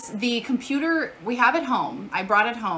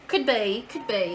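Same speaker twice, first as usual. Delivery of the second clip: put-on British accent. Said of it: "that's my British accent".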